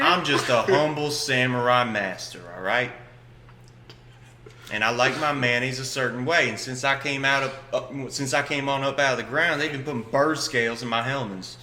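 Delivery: lightly voiced, self-important samurai master; humble samurai master. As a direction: state it as a mock samurai with a grievance. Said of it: "Are you a method actor?".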